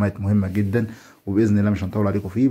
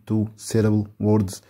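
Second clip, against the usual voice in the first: slow syllable demo; much slower than usual. Shown as a demonstration. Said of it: "كلمات ذات مقطعين لفظيين".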